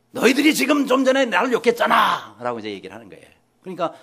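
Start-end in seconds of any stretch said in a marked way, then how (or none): 0.1-2.4 high-pitched, acted imperial outburst; angry accusation. Emperor confronting soldiers who cursed him, acted angry accusation. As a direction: accuse them like an offended emperor.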